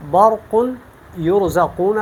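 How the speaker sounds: برق with a thick, full R; heavy ra. Shown as a demonstration. Teacher returning to the full reading for contrast, heavy ra. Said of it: "تو یہ میں نے پر پڑھا".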